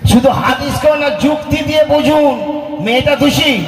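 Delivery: rousing exhortation. Real, not acted. Preacher exhorting the crowd.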